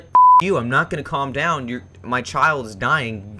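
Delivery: mom screaming at the operator; frantic mother yelling down the phone; retold screaming. Mother screaming at the operator to send help, loud and frantic. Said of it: "just screaming excitement".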